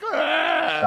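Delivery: high-pitched "ah" of dread; mock panicked cry. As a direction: let out a high, strained wail. Imitates feeling of running a jam.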